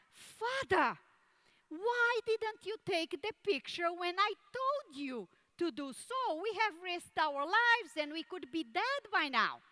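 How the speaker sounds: high, upset son questioning; reproachful son. Retold or imitated. A son questioning his father about risking their lives, high and upset.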